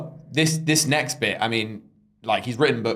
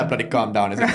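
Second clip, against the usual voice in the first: laughing through a quote; 2 semitones higher, faster than usual. Retold or imitated. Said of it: "with an accent".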